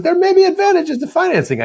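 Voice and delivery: high, mock Middle Eastern accent; imitating a car dealer's Middle Eastern accent. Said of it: "Middle Eastern accent".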